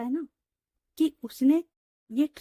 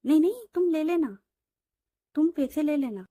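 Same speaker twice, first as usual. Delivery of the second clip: eager protest; 5 semitones higher, 5 dB louder than usual. Acted. Ritika protesting to Preeti.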